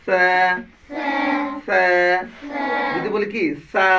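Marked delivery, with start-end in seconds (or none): 0.0-1.8 সে as "th" on soft air; soft airy se. Shown as a demonstration. Teacher drilling after explanation, soft lisped সে. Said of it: "নরম বাতাস". 3.7-3.9 সা with a hissed "s" instead of "th"; wrong sa. Shown as a demonstration. Teacher showing a serious error, সা with an s sound. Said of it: "সা বললে কি উচ্চারণ হচ্ছে?".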